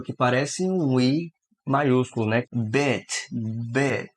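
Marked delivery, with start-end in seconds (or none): 2.5-4.1 "bit" with a short, open i. Shown as a demonstration. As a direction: keep the vowel short. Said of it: "Significa tiquinho". ("bit" com i curto)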